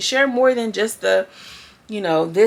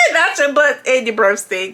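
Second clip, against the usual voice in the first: laughing through words; 3 semitones higher, 4 dB louder than usual. Real, not acted.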